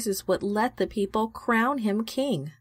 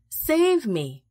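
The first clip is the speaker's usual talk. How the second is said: desperate plea; 4 semitones higher than usual. A narrator's reading. Sinking Peter begs Jesus, frightened plea. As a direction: beg to be rescued. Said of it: "he shouted".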